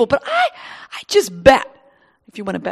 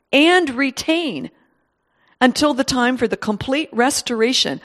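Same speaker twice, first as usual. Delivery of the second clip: scripture reading. Acted. Preacher reading scripture to the church, measured. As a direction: read the verses out to the congregation, unhurried.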